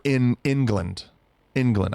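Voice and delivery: England starting with the word in; short-I variant. Shown as a demonstration. Showing a rejected pronunciation, England as in-gland. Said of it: "I don't say".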